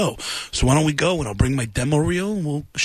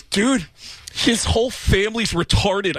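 lightly voiced rock drummer, a touch higher; metal band drummer voice; 5 semitones higher than usual. Drummer introducing the comic to his band, light drummer voice. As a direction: toss it off like a careless metal drummer. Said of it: "introduced me to his band and goes".

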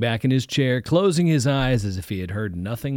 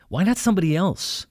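raised, pleading cry to God; anguished prayer; 7 semitones higher than usual. Acted. Young man praying at night why God chose him, anguished. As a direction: plead upward in despair.

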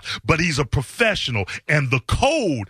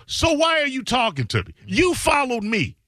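mock retort; 6 semitones higher than usual. Imagined retort to the troll.

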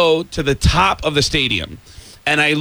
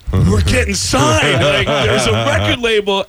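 excited; 6 semitones higher than usual. Retold or imitated. Kid excited about label letter.

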